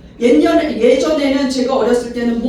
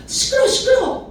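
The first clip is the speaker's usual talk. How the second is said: high-pitched mock scolding; 11 semitones higher than usual. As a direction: shut up a noisy nuisance in a high voice. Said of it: "어, 다그칩니다".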